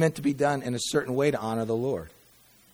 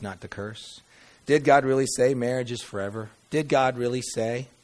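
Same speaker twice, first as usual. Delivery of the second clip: mocking temptation; 2 semitones higher, 5 dB louder than usual. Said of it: "the serpent's tactic is to make you question".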